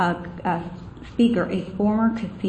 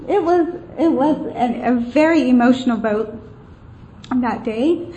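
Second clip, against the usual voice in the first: emotional; 4 semitones higher than usual. Real, not acted. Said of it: "I'm sorry, I get a little emotional".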